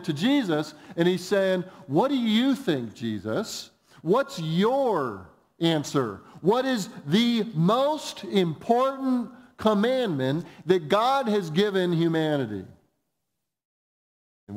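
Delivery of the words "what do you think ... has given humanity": slow, higher-pitched emphatic question; pointed challenge. Acted. Scribe tossing the question to Jesus, pointed and emphatic. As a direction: put the question weightily, stretching key words.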